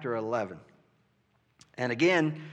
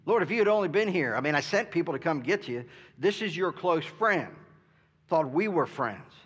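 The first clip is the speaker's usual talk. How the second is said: a touch higher, quick hurt reproach; Martha's hurt complaint; 3 semitones higher than usual. Acted. Martha to Jesus, friend who came too late, hurt. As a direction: let her disappointment spill out fast. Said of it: "I don't know if you could hear it in her voice".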